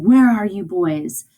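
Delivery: mild mock yell, drawn out; a slow, half-strength angry call; retold yell. Teacher retells the furious father's question, mildly yelled. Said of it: "He's yelling".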